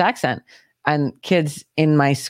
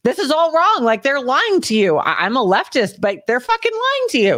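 ranting leftist, pitch jumping higher on the outbursts; heated mock rant of a fed-up celebrity; Russell Brand impression; 4 semitones higher than usual. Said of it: "That's basically Russell Brand".

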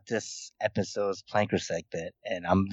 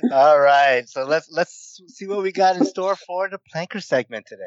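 excited host; 9 semitones higher, 5 dB louder than usual. Real, not acted. Host hyping the segment.

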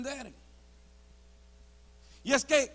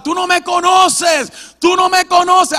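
defiant yelling; 6 semitones higher, 11 dB louder than usual. Retold or imitated. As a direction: yell it out at someone far away. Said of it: "Yo le gritaba". (grito desafiante a todo pulmón)

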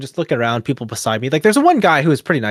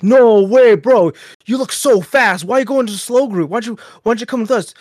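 higher-pitched mock amazement; imitated incredulous protest; 9 semitones higher, 5 dB louder than usual. Riders questioning the fast-looking newcomer, imitated incredulity. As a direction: play the riders, pitched up in disbelief.

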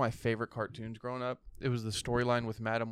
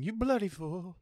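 higher, odd squawky duck voice; mimicking the duck; 7 semitones higher, slower than usual. Friend imitating the duck's line. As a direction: parrot it like a duck. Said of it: "he's literally fucking and saying".

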